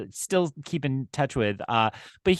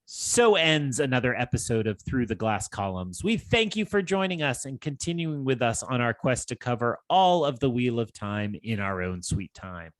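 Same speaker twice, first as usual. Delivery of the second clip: steady podcast sign-off; outro read. Acted. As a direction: read the closing like an announcer.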